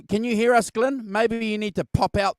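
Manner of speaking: high call into the mic; calling from far away. Real, not acted. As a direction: call out to an absent guest. Calling to guest who cannot hear.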